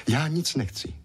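a sulky, pouting refusal. A narrator's reading. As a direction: pout it out like a stubborn girl. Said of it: "trucovala Evelínka".

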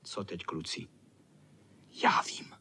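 tiše, šeptem do party; pošeptat klukům; šepot. Acted. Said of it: "šeptal jim pihovatý". (pihovatý šeptá klukům plán, šeptem)

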